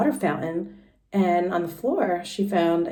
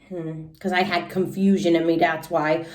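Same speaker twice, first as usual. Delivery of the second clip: put-on lively little-girl storytelling voice, pitched higher; Junie B. read aloud; 6 semitones higher, 4 dB louder than usual. Teacher reading Junie B. to the class in a high kid voice. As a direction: read it as an excited first-grader telling her story.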